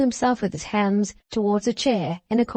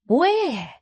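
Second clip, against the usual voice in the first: sharp demand; 7 semitones higher than usual. A narrator's reading. Venus demands.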